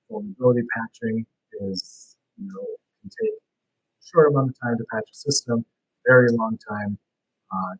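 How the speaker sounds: glitchy robotic call audio; choppy garbled connection, sounds underwater; breaking up, underwater. Real, not acted. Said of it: "your audio is breaking up again, or you sound underwater".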